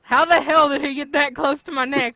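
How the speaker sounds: ordinary delivery, nothing marked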